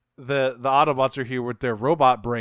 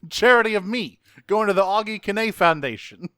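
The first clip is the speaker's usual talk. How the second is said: higher, louder mock-indignant riff; put-upon racer, voice pushed up; mock indignant driver; 7 semitones higher, 6 dB louder than usual. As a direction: play the affronted star demanding his cut. Riffing as the indignant race driver.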